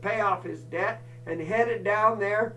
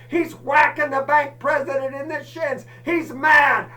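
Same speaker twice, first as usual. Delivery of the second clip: frantic; 6 semitones higher, 6 dB louder than usual. Retold or imitated. Frantic retelling of mad dog.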